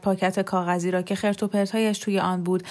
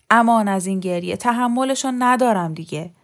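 exasperated complaint; 2 semitones higher, 4 dB louder than usual. Acted. Husband worn down by baby's crying, exasperated. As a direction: complain as if at the end of your patience.

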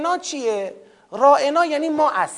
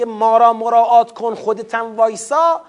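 demanding tone; 6 dB louder than usual. Retold or imitated. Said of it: "ادبیات راعنا و با منش".

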